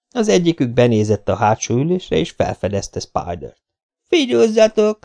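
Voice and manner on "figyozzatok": high, eager shout to the gang; excited call. Acted. Girl spotting the naked man, excitedly calling the others. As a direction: call the others over, thrilled. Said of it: "kiáltotta izgatottan".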